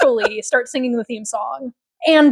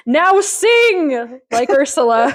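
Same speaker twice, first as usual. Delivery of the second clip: quoting the doctor; 2 semitones higher, much slower than usual. Retold or imitated. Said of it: "the doctor's like".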